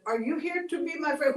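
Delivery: high, pleading voice of a lonely cactus; a lonely cactus pleading, a touch tearful; lonely crying cactus. Acted. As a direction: beg for a friend, close to tears. Cactus repeats to Coyote.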